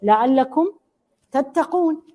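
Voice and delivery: rising, lifted recitation of لعلكم تتقون; recited verse ending. Acted. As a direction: chant the ending up high.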